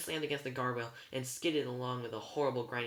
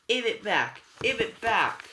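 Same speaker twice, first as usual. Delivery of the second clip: high, very loud demand; furious yell; 9 semitones higher, 10 dB louder, slower than usual. A narrator's reading. Enraged driver demanding her tooth from her sister, yelling. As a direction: yell it twice, pitched way up.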